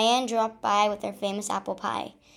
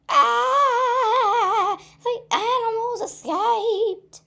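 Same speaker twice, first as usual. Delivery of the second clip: loud, much higher alarmed cry; yelled; 13 semitones higher, 7 dB louder, much slower than usual. Acted. Unknown voice yelling the animals escaped, loud. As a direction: yell the alarm from a distance. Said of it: "yelled a voice".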